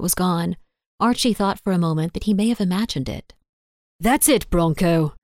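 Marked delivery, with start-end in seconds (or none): 4.0-5.1 voice rising. A narrator's reading. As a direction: cut Bronco off as the temper climbs. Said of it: "Archie's voice was rising".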